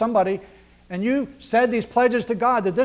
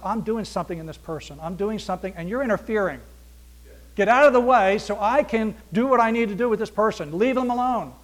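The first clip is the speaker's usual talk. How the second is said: God's voice; 4 dB louder than usual. Acted. Voicing God's rebuke.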